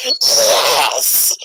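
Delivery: drawn-out mock-evil yes; gleefully wicked little creature; evil pup. Player imagining the wolf pups answering, hammed-up evil voice. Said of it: "you're making the pups sound so evil".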